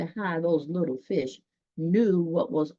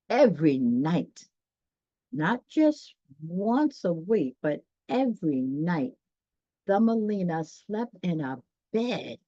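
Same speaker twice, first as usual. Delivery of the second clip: storybook narration. A narrator's reading. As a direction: read it like a bedtime picture book. Reads storybook narration aloud.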